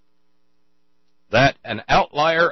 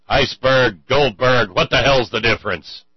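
mock retort; 3 semitones higher, 9 dB louder than usual. Wong's punchline retort in joke.

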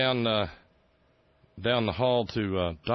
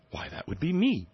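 much higher eager little answer; Tony Blair; 10 semitones higher than usual. Retold or imitated. Tony Blair answering the prince, in a high eager mock voice. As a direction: pipe up like a proud pupil. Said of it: "he said".

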